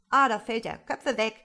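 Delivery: loud, urgent cry of alarm; warning shout. A narrator's reading. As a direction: yell for everyone to duck. Workers shout warning of falling slate.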